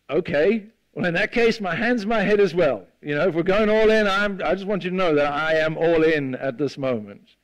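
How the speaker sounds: overeager, wanting it all; eager Peter. Retold or imitated. Peter telling Jesus he is all in, eager.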